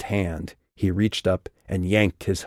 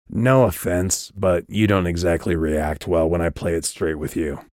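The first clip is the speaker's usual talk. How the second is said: dry. Acted. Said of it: "His voice was dry".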